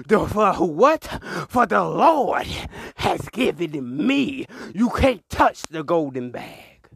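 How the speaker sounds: preaching. Acted. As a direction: build to the big line.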